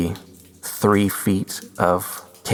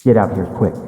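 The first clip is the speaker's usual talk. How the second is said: urgent yell; 4 dB louder than usual. Retold or imitated. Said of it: "And then Josh yells again".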